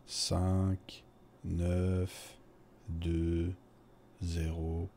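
slow, each digit on its own. Acted. Man repeats his phone number on request, slow digit by digit. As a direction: spell the number out slowly, pausing between digits. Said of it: "vous pouvez le redire".

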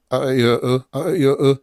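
vowels run together through a barely open mouth; closed-mouth vowels. Shown as a demonstration. Teacher showing a lazy vowel sound, barely opened mouth. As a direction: mumble the vowels without opening the mouth. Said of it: "nie otwieram ust".

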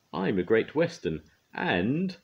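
loud, high-pitched boast; proud. A narrator's reading. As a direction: boast grandly, rising until cut off. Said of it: "said Duck proudly".

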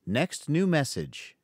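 robot voice reading the greeting; robotic voicemail voice. Acted. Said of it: "the voicemail continued".

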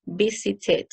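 "visited" with an extra full syllable "-tid"; teacher modelling "visited" as visit-id; ID ending. Shown as a demonstration. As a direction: sound out the final "id" on "visited". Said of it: "que terminan en id sound".

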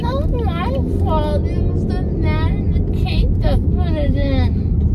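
loud slurred numb-mouth speech; mushy words through gauze; numb from the dentist. Real, not acted. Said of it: "I can't move my mouth".

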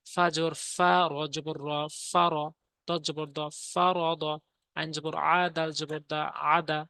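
level, rhythmic letter-by-letter recitation; Quran spelling drill. Shown as a demonstration. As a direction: spell each syllable, then join them into the word.

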